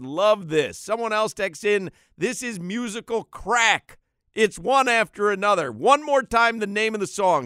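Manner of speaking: loud, high hyped-up reading; excited reading. Real, not acted. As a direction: read them with rising hype.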